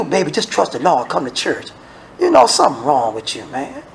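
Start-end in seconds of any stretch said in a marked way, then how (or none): 0.0-1.7 mock soothing. Mocking a vague answer.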